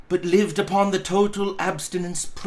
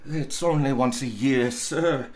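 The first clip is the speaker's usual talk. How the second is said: pleading; 2 semitones lower, 3 dB quieter than usual. Acted. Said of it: "pleaded Bob".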